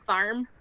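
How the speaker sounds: "farm" said for "form", with an open "ar" vowel; Irish-sounding "farm". Shown as a demonstration. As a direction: say "farm" where "form" is meant, Irish-style. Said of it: "without sounding Irish".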